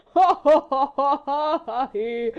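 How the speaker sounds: loud hearty ha-ha; good-humoured laugh. A narrator's reading. Sir Percy echoing his wife's laugh, loud and hearty. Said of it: "echoed Sir Percy, good humouredly".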